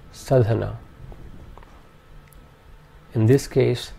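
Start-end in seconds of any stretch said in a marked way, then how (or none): 0.1-0.8 sadhana with short a throughout; sadhana, quick and even; all vowels short. Shown as a demonstration. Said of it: "All three vowel sounds in this are short".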